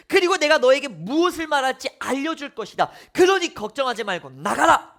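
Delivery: God reassuring Moses in a booming voice. Acted. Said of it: "십일 절과 십이 절에서 말씀하십니다".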